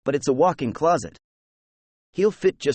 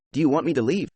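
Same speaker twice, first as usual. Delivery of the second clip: sincere; faster than usual. Acted. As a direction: ask gently, meaning it. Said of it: "He seems sincere when he says".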